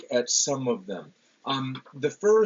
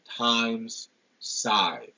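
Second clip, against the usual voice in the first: "Time's scythe" with equal weight on both long I vowels; stressed I sound. Shown as a demonstration. Lecturer repeating the assonance example, both vowels stressed. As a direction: set "Time's" and "scythe" apart, stressing each. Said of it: "that I sound".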